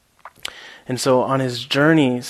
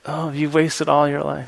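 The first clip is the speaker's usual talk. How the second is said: chuckling as the line comes out; laughing through the punchline; 2 semitones higher than usual. Retold or imitated. Teacher delivering the joke's punchline, laughing. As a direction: laugh your way through the last words.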